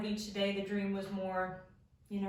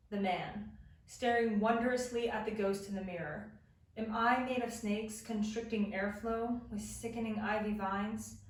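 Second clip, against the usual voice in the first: measured, deliberate poetry recital; poem reading. Acted. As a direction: read each line like a dream image, pausing between. Reads her reverse poem aloud.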